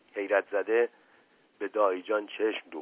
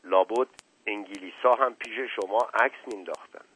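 calm. Acted. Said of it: "با لحن آرامی گفت".

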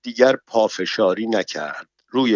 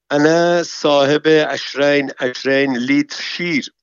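disguised man's voice; 5 semitones higher, 4 dB louder than usual. Acted. Man disguised as woman answers.

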